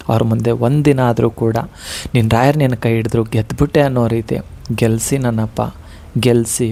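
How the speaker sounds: demonstrating a calm tearful request to Rayaru; calm tearful prayer. Shown as a demonstration. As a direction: pray gently as if near tears. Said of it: "ಶಾಂತ ಸ್ವಭಾವದಿಂದ ... ಕಣ್ಣೀರು ಹಾಕ್ಕೊಂಡೇ ಹೇಳ್ಕೊಳ್ಳಿ".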